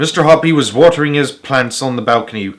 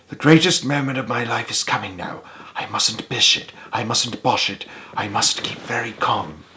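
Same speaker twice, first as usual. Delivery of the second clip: steady yourself in a soft mutter; under his breath; 6 dB quieter than usual. A narrator's reading. Nervous man calming himself on the stairs, softly. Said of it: "under his breath".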